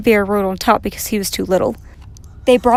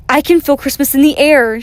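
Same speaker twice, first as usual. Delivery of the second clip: louder, higher, delighted call; excited shout; 4 semitones higher, 7 dB louder than usual. A narrator's reading. Samantha feels Christmas in the air, excited shout. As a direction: shout it out with wonder. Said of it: "she shouted".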